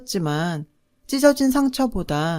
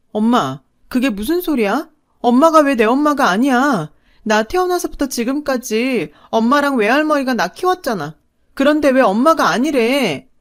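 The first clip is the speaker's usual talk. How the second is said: higher, louder, pleading voice; pleading cry; 5 semitones higher, 4 dB louder than usual. A narrator's reading. Girl clinging to her mother, tearful pleading. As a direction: beg her, close to tears. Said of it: "엉엉 울면서 엄마한테 매달렸어요".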